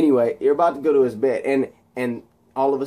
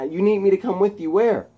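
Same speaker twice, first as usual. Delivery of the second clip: higher questioning voice; imitated confused hero; acted bafflement; 8 semitones higher than usual. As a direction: ask again in disbelief. Spider-Man surprised by request.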